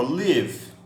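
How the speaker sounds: live said as "lev", short i; pron of live. Shown as a demonstration. Teacher to class, showing the verb: live as "liv". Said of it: "Olha a transcrição fonética".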